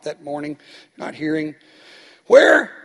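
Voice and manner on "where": loud, high, drawn-out "Where?"; shouting for a deaf man. Retold or imitated. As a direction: call it out so a half-deaf man hears.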